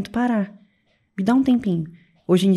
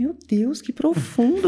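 mock awe; 5 semitones higher, slower than usual. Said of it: "eu falei".

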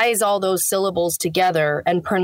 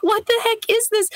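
baffled reaction; faster than usual. Retold or imitated. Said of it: "I'd be like".

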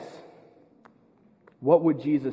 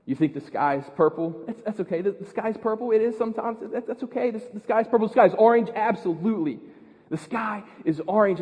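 loving tone; 4 semitones higher than usual. Shown as a demonstration. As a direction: coo it like you'd soothe a child. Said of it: "Or I can be very loving".

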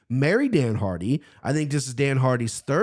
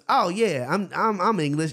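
higher-pitched mock New Zealand accent; imitated New Zealand accent; 4 semitones higher than usual. Friend bluffing to a woman, mock New Zealand accent. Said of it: "drunk doing the New Zealand accent".

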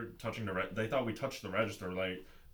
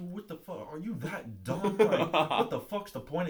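slow, high-pitched exasperated imitation; hammed-up berating; mock angry cursing; 8 semitones higher, 4 dB louder, slower than usual. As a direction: draw out the guard's disbelief, building louder. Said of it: "He was cursing and shit at me".

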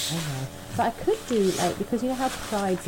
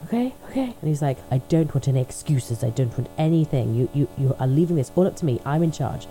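insist, allow no excuses; bossy partner. Retold or imitated. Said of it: "God, so dominant".

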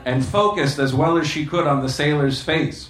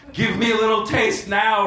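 begging; 7 semitones higher than usual. Acted. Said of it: "Ramona begged".

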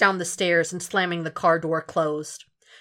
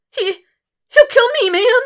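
much higher, louder panicked cry; desperate yelp; terrified thug; 11 dB louder than usual. Acted. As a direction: screech out the fear of being killed.

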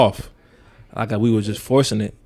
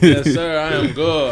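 barked military recruit reply; 5 semitones higher, slower than usual. Pretend. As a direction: snap it back like a recruit. Echoing the yes sir call.

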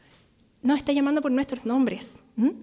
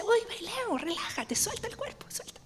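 soft invitation; 5 semitones higher, 11 dB quieter than usual. Pretend. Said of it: "me toma las manos y me dice".

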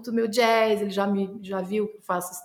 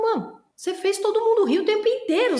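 excited friend; 10 semitones higher than usual. Retold or imitated.

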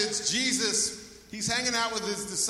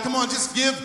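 rallying call; 2 semitones higher, 6 dB louder than usual. Real, not acted. Pastor urging congregation to praise.

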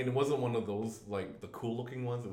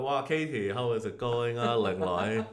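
put-on Hong Kong Chinese accent, a little louder; 4 dB louder than usual. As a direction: greet her in a playful Hong Kong accent. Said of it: "I can only do the Hong Kong one".

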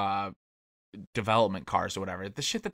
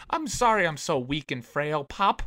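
put-on frail breathless old person; 6 semitones higher than usual. Weak son voiced apologizing to Pop.

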